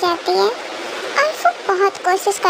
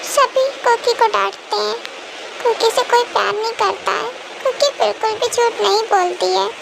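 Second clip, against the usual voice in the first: put-on sulky child voice; 2 semitones higher than usual. Cookie complaining to her daddy that nobody loves her, sulky child. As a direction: sulk like a scolded small child. Cookie sulks after scolding.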